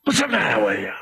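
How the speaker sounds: low, soft, lightly sneering aside; a hint of looking down on them; mock disdain. Jesus as he did not sound, a mild disdainful mutter. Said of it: "with disdain or disgust".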